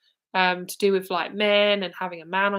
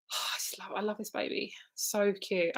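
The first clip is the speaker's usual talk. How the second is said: tender hush; 8 dB quieter than usual. Real, not acted. Tender over spirit baby.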